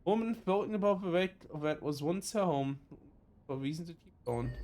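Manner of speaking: reading a sad scene to viewers; story narration. Acted. Reads game narration aloud.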